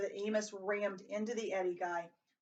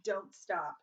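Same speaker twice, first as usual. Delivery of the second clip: yell. A narrator's reading. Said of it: "would yell".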